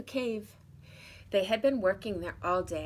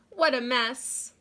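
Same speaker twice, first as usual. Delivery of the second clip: louder, slow mock dismay; dismayed exclamation; 4 semitones higher, 8 dB louder, slower than usual. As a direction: exclaim at the mess. Seeing the dirty kitchen.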